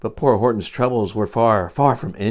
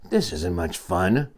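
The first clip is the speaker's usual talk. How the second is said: grumbled; 4 semitones lower, 4 dB quieter than usual. Acted. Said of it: "the poor elephant grumbled".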